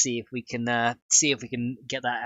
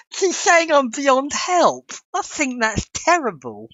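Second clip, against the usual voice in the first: laughing; 12 semitones higher, 5 dB louder, slower than usual. Real, not acted. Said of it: "I cry laughing too".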